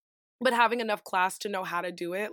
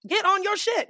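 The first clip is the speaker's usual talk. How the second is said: loud talk; 8 semitones higher, 4 dB louder than usual. Retold or imitated. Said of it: "I was talking a little loud".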